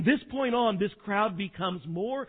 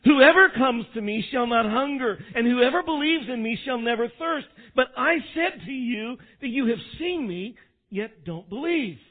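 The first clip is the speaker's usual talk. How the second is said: loud, raised, deliberate declaration; clear, loud proclamation; 4 semitones higher, 6 dB louder than usual. Shown as a demonstration. Preacher reading Jesus' words to the congregation, loud and clear. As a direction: proclaim it forcefully, every word clear. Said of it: "say it slowly and clearly and loudly".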